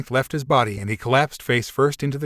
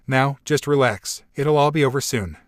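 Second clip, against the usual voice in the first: mock consoling. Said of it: "made a mock attempt to console".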